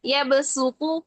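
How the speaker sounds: यबसुतु with a clear s sound; यबसुतु, seen not saad; Qur'anic recitation. Shown as a demonstration. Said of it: "हम सीन से इसको पढ़ेंगे".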